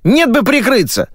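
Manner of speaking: host scolding the booth, exasperated; angry scolding. Acted. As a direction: snap at the crew in disbelief.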